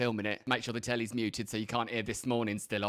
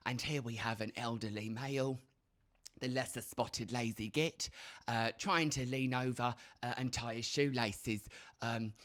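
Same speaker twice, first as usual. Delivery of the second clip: nature documentary; 2 semitones lower, 5 dB quieter than usual. Retold or imitated. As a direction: whisper it like a wildlife narrator. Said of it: "something David Attenborough would do".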